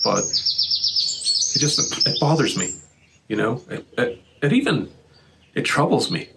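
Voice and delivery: halting, voice breaking with feeling; struggling to get the words out; emotional. Real, not acted. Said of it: "I don't mean to get emotional".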